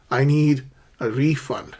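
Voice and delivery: "refund" as REE-fund in a careful model sentence; stress on first syllable. Shown as a demonstration. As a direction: punch the RE in "refund". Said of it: "stress the first syllable".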